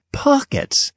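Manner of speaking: high, shocked "Pockets?" in a far-off voice; incredulous question. Acted. Narrator reacting to his sweatpants, stunned and incredulous. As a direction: gasp the word "Pockets?" in disbelief.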